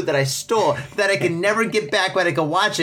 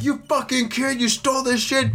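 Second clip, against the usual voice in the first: imitated yelling dad; 8 semitones higher than usual. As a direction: play an angry dad telling off his kid. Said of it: "My dad's yelling at me like".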